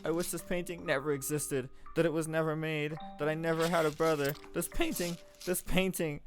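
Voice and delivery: put-on a girl betrayed, crying out at a portrait; anguished outburst. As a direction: rail at the lying painting, heartbroken. Nellie breaks down at the painting.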